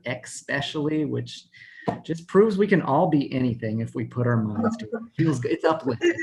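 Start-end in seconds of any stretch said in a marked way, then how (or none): 0.1-1.0 "especially" said as "ekspecially"; mispronounced word. Retold or imitated. Quoting an environmental lawyer, "especially" mispronounced as "ekspecially". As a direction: put a K sound into "especially": "ek-specially". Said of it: "who says the word".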